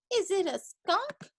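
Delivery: high, slow squeaky question; squeaking bear cub. A narrator's reading. Bear cub wondering about the smell, squeaky question. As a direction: ask it in a tiny high squeak. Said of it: "squeaked the bear cub".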